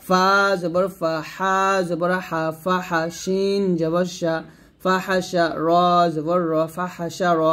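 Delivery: measured recitation with stretched letter names; Arabic spelling drill. Shown as a demonstration. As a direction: recite letter by letter for pupils to follow.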